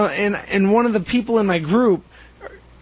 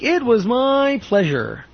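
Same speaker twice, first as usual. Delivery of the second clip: slow, higher, overly polite service voice; polite service phrase; 5 semitones higher, slower than usual. Shown as a demonstration. Showing how to answer a thank-you, slow and high. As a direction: say it like a beaming clerk. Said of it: "Say something like".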